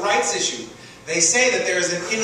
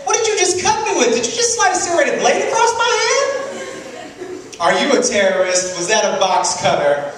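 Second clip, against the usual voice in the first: interrogating; 8 semitones higher than usual. Acted. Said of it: "interrogating your boss".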